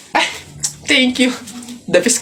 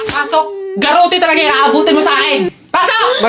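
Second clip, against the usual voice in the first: scolding mother; 4 semitones higher than usual. Acted.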